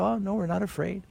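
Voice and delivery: quiet, peaceful denial of fear; calm reassurance. Acted. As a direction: answer gently, untroubled. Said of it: "so impressed by their peace".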